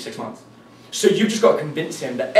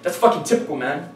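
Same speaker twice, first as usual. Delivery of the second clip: fake aggression; 4 semitones higher, 3 dB louder than usual. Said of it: "you get aggressive very fast".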